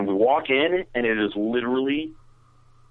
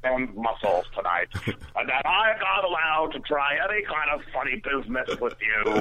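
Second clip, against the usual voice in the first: high, laboured impression of the friend; annoying screaming friend; 4 semitones higher, 4 dB quieter than usual. Friend listing what her boyfriend forbids, annoying mock-impaired voice. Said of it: "she screams like that?".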